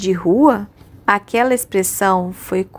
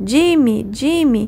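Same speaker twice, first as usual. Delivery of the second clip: breathless, panting call, much higher; 4 semitones higher than usual. Narrator reads a character calling after a boy she chased, breathless exclamation. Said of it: "exclamou ofegante ao alcançá-lo".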